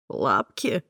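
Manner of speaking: a hint of a puzzled man; lightly voiced man. Mark asks back on the phone, lightly voiced puzzled man. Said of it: "переспросил он".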